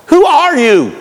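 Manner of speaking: high-pitched, acted incredulous challenge; incredulous demand. Religious authorities questioning John the Baptist, incredulous demand. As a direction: demand an identity in mock astonishment.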